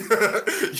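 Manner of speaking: short loud laugh. Real, not acted. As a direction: laugh at your own imitation. Laughs at own bit.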